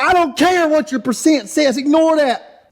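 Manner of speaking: imitating Thug Life yelling. Thug Life dismisses the racer's numbers, high mock yell. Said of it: "He said".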